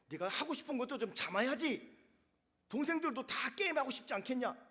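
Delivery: hammed-up child playing the strict parent; imitating a scolding. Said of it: "다 큰 애처럼 혼내키고 있더라는". (어른 흉내 내는 꾸중, 높고 큰 소리)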